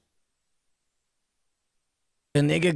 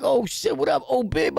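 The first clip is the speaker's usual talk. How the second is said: mock hyped greeting, higher and bright; excited shout; 5 semitones higher than usual. Friend greets narrator across the house, mock excited shout. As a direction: hype it up like seeing an old friend.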